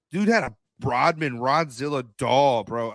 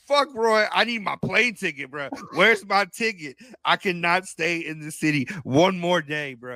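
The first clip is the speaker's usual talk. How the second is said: mock desperate plea; 4 semitones higher than usual. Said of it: "I'm like".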